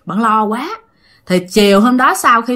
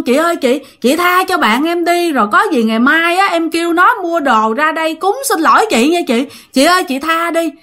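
mildly acted pleading, raised pitch; retold begging; 5 semitones higher than usual. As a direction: beg for mercy on a friend's behalf, in repeated appeals. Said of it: "bạn lại, bạn lại". (giả giọng van lạy xin tha)

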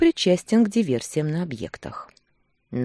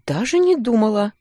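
higher, playfully innocent denial; mock innocent; 6 semitones higher, 5 dB louder than usual. A narrator's reading. Wife teasing her husband, mock innocent. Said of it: "невинно хлопала глазками".

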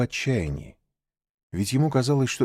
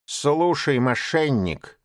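sharp rebuke; 5 semitones higher, slower than usual. Acted. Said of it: "резко сказал Багира".

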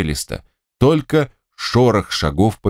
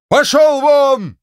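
much higher, loud, slow bellow; furious shout; 4 dB louder, much slower than usual. Acted. General to servant, bellowing him out. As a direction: throw the servant out. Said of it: "закричал генерал".

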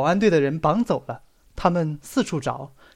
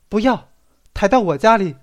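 firm insistence; 4 semitones higher, 5 dB louder than usual. Acted. Qiaoyun stops the bearers firmly.

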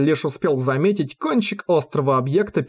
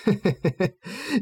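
short evil chuckle, rising at the end; sinister villain laugh; 5 semitones higher, 5 dB quieter than usual. Acted. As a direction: laugh like a gloating undead villain. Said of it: "Игувуа зловеще засмеялся".

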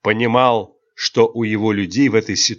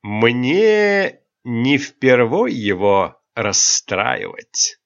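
hard smile; 2 semitones higher, much slower than usual. Acted. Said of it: "улыбка аристократа стала жёсткой".

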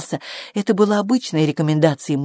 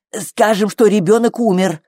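firm, higher and a bit louder; confident declaration; 5 semitones higher, 5 dB louder than usual. A narrator's reading. Flo offering the midwife her cover story, confident declaration. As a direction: declare it with complete assurance. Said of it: "уверенно заявила Фло".

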